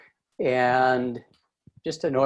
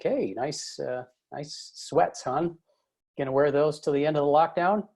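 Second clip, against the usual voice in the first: sarcastic jab; 3 semitones higher than usual. Retold or imitated. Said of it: "a sarcastic jab to his wife".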